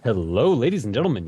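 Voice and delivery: booming hammed-up radio host intro; radio announcer voice. Shown as a demonstration. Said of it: "a fucking radio announcer voice".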